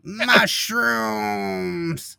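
high chipmunk-style monster shout. Retold or imitated. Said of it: "but a very chipmunky way".

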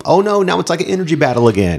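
high-pitched mock "oh no"; mock dismay. Fan mocks the film turning into an energy battle, mock dismay. Mocking the movie's turn.

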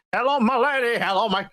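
lightly imitated singing frog; half-sung cartoon frog greeting. Co-host imitating the W B frog, lightly half-sung. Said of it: "like, frog that goes".

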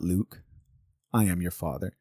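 a hint of a solemn villain voice; Darth Vader. Showing the misquote of the villain's line, lightly imitated low voice. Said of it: "what Darth Vader actually says".

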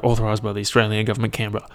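quick, businesslike tag-line read; imitating an Australian government ad disclaimer. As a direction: rattle it off like the end of a government ad. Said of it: "you know how they read, those government messages".

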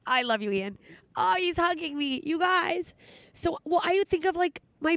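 tearful, voice rising as it goes; choked up while confessing something painful; real crying. Real, not acted. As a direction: talk through tears, half laughing at yourself. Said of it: "Why am I crying".

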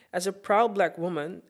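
proud black woman, black pressed; stress on black. Shown as a demonstration. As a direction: give the word black the weight. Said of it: "emphasis on black".

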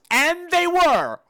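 high, loud and slow: and they were; horror-story payoff, slowly and loudly; exclaimed. Real, not acted. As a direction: stretch it out in shocked delight. Punchline exclaimed.

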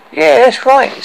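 high, eager agreement; grateful. Acted. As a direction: agree with thankful relief. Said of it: "said Lily White grate-, gratefully".

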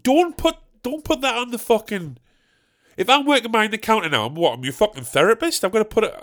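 high-pitched, stumbling comic outrage; exasperated protest. Acted. Customer reacting to oversharing at the till, exasperated protest. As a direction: object in mock disbelief, breaking off mid-thought.

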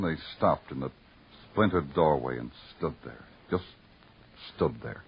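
brooding, measured voice-over; noir narration. A narrator's reading. Detective narrates the dawn on Broadway, brooding. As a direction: paint the city, lonely and grim.

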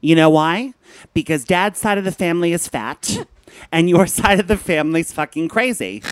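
mock outburst, piling up grievances with punched questions; bad-mood rant. Son venting at his mother about money and dating, worked-up rant. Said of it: "So that's why I'm in a bad mood".

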